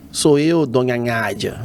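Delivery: André's voice. Retold or imitated. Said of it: "Eu, eu fazia assim".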